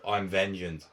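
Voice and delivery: low, growled hero line; gruff Batman voice. Retold or imitated. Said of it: "Instead of".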